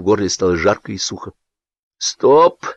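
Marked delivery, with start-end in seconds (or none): 2.0-2.6 hoarse. A narrator's reading. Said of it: "сказал он сиплым голосом".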